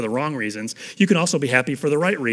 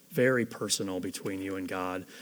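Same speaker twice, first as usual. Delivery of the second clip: "very personal" repeated lower and much softer, almost hushed; 5 semitones lower, 7 dB quieter than usual. Shown as a demonstration. Preacher echoing his own line to the congregation, hushed and lower. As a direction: drop your voice and say "very personal" again gently.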